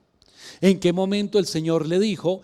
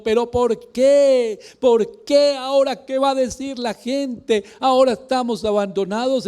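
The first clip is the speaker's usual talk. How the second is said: whiny crying complaint; 7 semitones higher, 4 dB louder than usual. Retold or imitated. Believer imitating Joshua crying on the floor, high and whimpering. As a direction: moan it like a despairing man who feels abandoned. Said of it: "llorando y diciendo".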